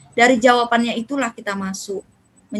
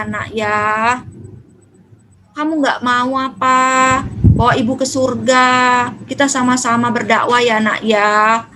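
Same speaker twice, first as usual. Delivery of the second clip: tender invitation; 2 semitones lower than usual. Shown as a demonstration. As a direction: coax the child kindly and slowly. Mother gently invites child to pray. (ibu mengajak anak ke masjid, pelan dan lembut)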